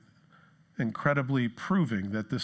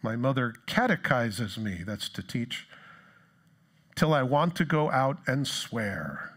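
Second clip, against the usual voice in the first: reading a poem; slower than usual. Acted. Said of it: "he says this".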